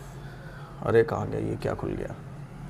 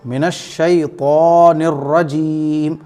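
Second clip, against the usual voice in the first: slow मिनश शैतानिर रजीम with a heavy ता; tajweed recitation; much slower than usual. Shown as a demonstration. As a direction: stretch the long vowels of शैतानिर and रजीम. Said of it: "यहाँ जज़म लगा देंगे". (धीमी तिलावत, ता मोटा)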